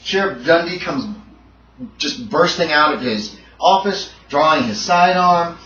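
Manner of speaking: vivid, dramatic action narration; energetic horror storytelling, pitch lifted; game master scene setting. A narrator's reading. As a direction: relish every gory detail as the attack unfolds.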